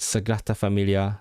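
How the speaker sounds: Sagrada in a Welsh accent, d like t. Shown as a demonstration. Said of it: "Welsh accent?".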